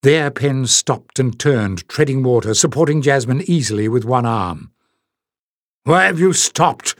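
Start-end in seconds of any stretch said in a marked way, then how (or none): 5.8-6.9 gasped. Acted. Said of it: "gasped Bada".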